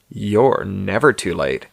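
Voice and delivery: slow, drawn-out camp reply. Acted. Sandra reassures Hugh about the party, camping it up. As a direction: stretch the words out and camp it up. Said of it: "camping it up".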